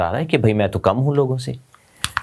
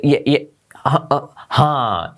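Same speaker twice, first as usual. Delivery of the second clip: stammering; much slower than usual. Shown as a demonstration. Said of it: "stammer".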